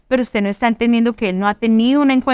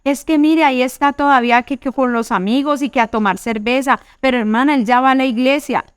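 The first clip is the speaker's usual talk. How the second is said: mock complaining wife; 4 semitones higher than usual. Church wife complains to sister about husband, mildly whiny imitation. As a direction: whine that he still drinks.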